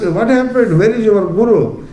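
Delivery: wise man asking. Acted. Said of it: "came near and asked".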